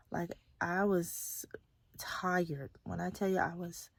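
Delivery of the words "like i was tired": breathy whispered tiredness; real exhausted whisper; weary whisper. Real, not acted. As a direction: let the word fade into a whisper. Describing exhaustion.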